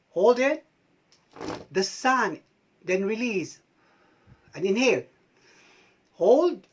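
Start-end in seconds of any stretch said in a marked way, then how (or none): 0.1-0.6 holding breath. Shown as a demonstration. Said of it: "and hold that breath". 6.1-6.6 holding breath. Shown as a demonstration.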